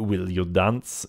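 put-on slow invitation in a light French accent. Bewigged man asks player to dance, light French accent. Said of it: "he asks in a light French accent".

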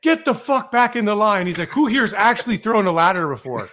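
high, loud, angry command; irritated captain barking; barking order. Retold or imitated. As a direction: send the rookie back in line. Captain ordering rookie back.

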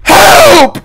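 high, shrill screaming for help; panicking gamer. Pretend. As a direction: wail like the end is near. About to die in game.

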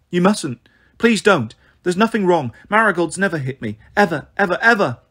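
put-on high, urgent child's plea; anxious, insistent denial; anxious pleading. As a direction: beg and insist, raising the pitch. Child pleads against welfare call.

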